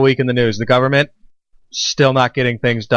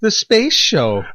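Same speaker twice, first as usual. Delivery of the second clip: announcer voice; 9 semitones higher, much slower than usual. Acted. Announcing show title.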